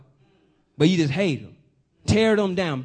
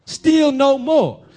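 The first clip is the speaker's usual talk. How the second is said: slow, louder, higher preaching; preached with force; 4 semitones higher, 5 dB louder, much slower than usual. Real, not acted. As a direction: drive each word home slowly.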